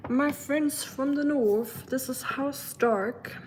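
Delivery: hammed-up British accent, high and slow; a grand Game of Thrones greeting in a bad British accent. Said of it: "that's the worst British accent ever".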